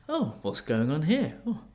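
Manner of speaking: put-on very English accent. British foreigner cheerfully greeting Thai police in a posh English accent. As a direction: play the charming, very English visitor. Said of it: "with my very English accent".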